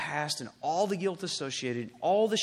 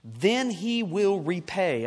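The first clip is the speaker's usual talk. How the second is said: raised, emphatic preacher's voice; forceful preaching; 2 semitones higher, 6 dB louder than usual. Acted. Preacher announcing the coming kingdom, forceful. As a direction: proclaim it firmly, phrase by phrase.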